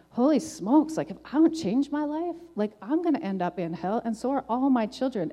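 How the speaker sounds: high, startled burst of realisation; alarmed realisation. Retold or imitated. Mother suddenly realising her children's fate, startled and high. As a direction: gasp it out as the danger hits you.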